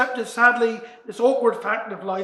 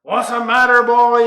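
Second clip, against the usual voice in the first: mother calling; 8 dB louder than usual. Acted.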